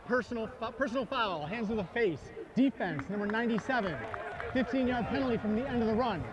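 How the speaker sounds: stadium PA referee call; referee penalty announcement. Real, not acted. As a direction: announce the foul over the stadium speakers.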